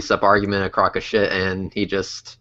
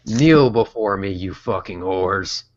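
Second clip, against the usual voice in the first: ancient rasping undead king; 2 semitones lower, slower than usual. Acted. Grandiose decree, slowed and drawn.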